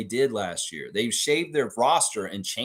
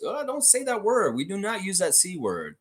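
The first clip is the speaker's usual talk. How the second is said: mock alarm; 8 semitones higher than usual. Real, not acted. Recoiling at the word curse.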